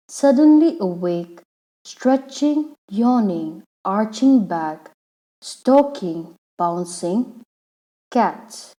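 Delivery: haiku read out in measured phrases with pauses; poem read aloud. Shown as a demonstration. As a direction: read the poem aloud, pausing between the images. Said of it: "first read out the poem".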